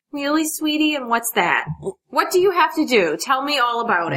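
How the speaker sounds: put-on a parent coaxing a child to explain; mock sweet parent. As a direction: play the sweet prying parent. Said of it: "would say".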